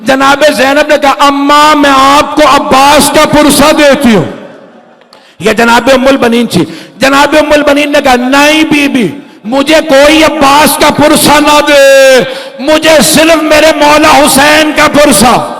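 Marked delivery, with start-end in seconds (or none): 0.0-4.2 put-on high, crying old woman's condolence; old woman weeping. High keening condolence. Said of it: "بلند آواز سے رونے لگی". 8.1-15.5 high, insistent grieving plea; grieving old mother. Acted. High tearful insistence. Umm ul-Banin refuses condolence.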